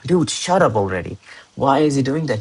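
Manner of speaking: mildly exasperated mock complaint; exasperated reader. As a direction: act out a reader fed up with repetition. Acted reader fed up with repetition.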